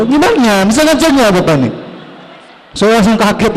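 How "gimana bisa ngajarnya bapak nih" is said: mock angry student. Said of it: "Malah itu".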